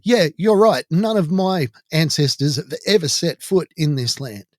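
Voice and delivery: retold mock agreement, lightly sarcastic. Zohan answers the Palestinian in a retold film scene, sarcastically. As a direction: quote a movie comeback with understated sarcasm. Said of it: "he went sarcastically".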